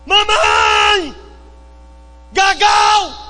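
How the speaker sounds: put-on high, shouted toddler voice; child calling out. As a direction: call like a small child wanting milk. Child voiced crying for milk. (criança gritando pela mãe, voz aguda)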